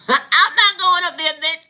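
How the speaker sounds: laughing, slow and loud, I'm not going; laughing refusal. Retold or imitated. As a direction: laugh it off while flatly refusing. Refuses to board the helicopter.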